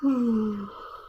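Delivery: long audible yawn; big tired yawn. Real, not acted. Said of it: "I started yawning".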